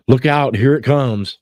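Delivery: mock warning. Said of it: "Go, uh".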